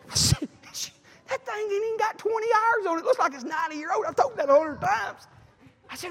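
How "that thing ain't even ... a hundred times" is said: indignant outburst. Retold or imitated. Preacher retelling his complaint about the new mower, indignant. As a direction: protest it high-pitched, stretching the last words.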